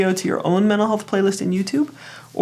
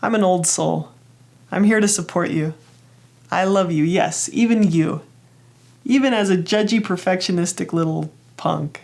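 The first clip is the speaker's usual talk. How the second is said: tender reassurance. Acted. Self comforting her young perfectionist part, tenderly. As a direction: soothe a hurting child. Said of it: "from myself, I said".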